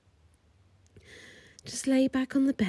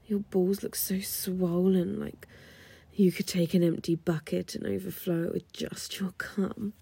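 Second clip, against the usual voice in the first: seductive whisper. Acted. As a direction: coax him to relax, all breath.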